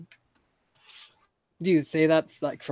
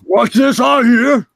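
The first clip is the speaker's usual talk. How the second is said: slow loud boast; 9 semitones higher, 10 dB louder, slower than usual. Acted. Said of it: "And he says".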